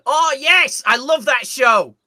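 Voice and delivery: thrilled gasp and squeal; high, loud delight at remembering; excited. Real, not acted. Remembers a favourite show.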